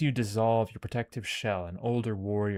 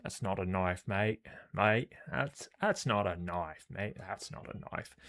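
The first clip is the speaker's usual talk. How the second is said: rehearsing an Australian accent; shaky attempt at Australian, phrase by phrase; Aussie accent. Shown as a demonstration. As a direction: test out a rough Aussie twang. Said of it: "how do we do Aussie".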